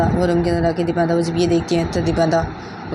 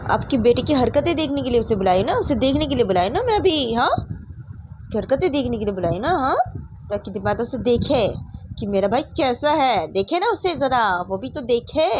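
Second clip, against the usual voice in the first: higher, swooping, taunting delivery; defiant retort; 6 semitones higher than usual. Acted. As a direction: throw it back at mother with exaggerated rises and falls. Daughter defiantly answers angry mother. (माँ को ऊँची आवाज़ में तीखा, चिढ़ाता जवाब)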